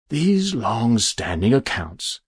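slow, regretful and drawn out; with a sigh. Acted. Stranger closing an old account, sighing. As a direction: sigh over the duty. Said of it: "with a sigh".

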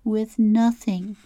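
"With nothing." said again slowly as a sad statement, falling on "nothing"; the girl repeats it to herself, resigned; flat repeat. Acted. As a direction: let it sink in, repeated glumly. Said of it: "She paused for a minute and repeated".

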